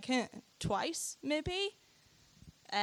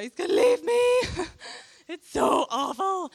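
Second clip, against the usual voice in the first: high, loud, hammed-up wail of despair; mock-tragic cry, much higher and louder; 8 semitones higher, 8 dB louder than usual. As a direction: wail it like a melodramatic heartbreak.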